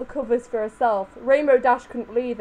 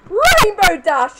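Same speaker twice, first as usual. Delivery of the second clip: loud, high, slow call of the name; yelled name; 9 semitones higher, 9 dB louder, much slower than usual. A narrator's reading. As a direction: drag the name out in a yell. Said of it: "she yelled".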